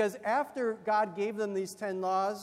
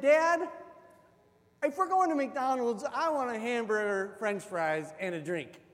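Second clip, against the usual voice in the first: put-on eager kid; 3 semitones higher, 4 dB louder than usual. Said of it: "And I said".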